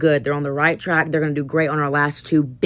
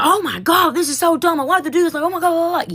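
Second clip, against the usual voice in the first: whiny student impression; 12 semitones higher than usual. Teacher imitating her class whining about the quiz. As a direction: whine like an annoyed teenager. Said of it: "they're all shit like".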